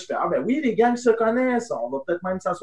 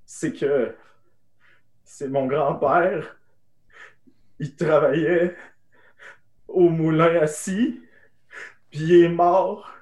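slow, halting, with long gaps; imitating her tearful pauses between words; mild retold grief, drawn out; long emotional pauses; 2 semitones lower, slower than usual. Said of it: "avec des longues pauses émotives".

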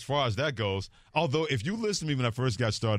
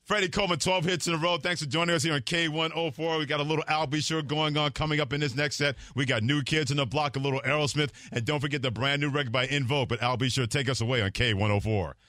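upbeat top forty DJ, higher; radio DJ voice; 3 semitones higher than usual. Shown as a demonstration. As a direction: hype the next set like a radio jock. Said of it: "Give us the voice".

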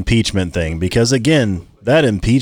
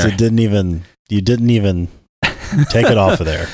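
deep monster voice filter; 3 semitones lower than usual. Real, not acted. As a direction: voice changer monster effect. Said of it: "I got the monster voice on there".

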